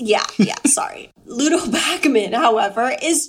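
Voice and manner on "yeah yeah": whispered yeah. Real, not acted. Embarrassed aside after accent.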